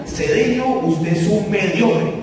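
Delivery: mock stern boss, drawn-out verdict; slow, cutting put-down, acted out; ill-humored boss. Ill-humored boss greeting an employee, mock stern. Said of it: "él estaba malhumorado".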